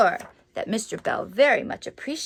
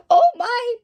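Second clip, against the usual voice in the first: surprised; 11 semitones higher, 7 dB louder than usual. Real, not acted. Surprised at the picture.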